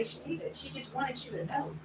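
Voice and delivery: hushed, kindly correction; gentle self-talk. Retold or imitated. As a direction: talk yourself down quietly. Gently correcting herself in retelling.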